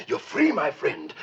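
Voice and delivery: suddenly gentle, coaxing voice; gentle, friendly. Acted. Freeing Joe from jail, gentle and friendly. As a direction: drop the howl and speak kindly. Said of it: "Speaking in a gentle, friendly voice".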